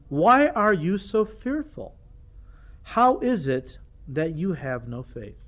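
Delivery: slow, deliberate scolding questions; slow rebuke. Retold or imitated. Preacher voicing Jesus rebuking fearful disciples, slow and deliberate. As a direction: drag out each word like a patient scolding. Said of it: "then he rebukes the disciples".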